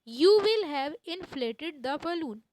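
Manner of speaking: slow, even dictation pace; spelling it out word by word. Shown as a demonstration. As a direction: read it slowly so students can write. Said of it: "dictated model sentence, slow".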